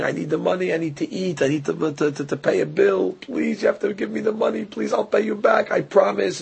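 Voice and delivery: soft, whimpering beg for a loan; borrower's teary, hushed begging; pleading crying. Retold or imitated. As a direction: plead quietly as if near tears. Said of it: "And he's crying".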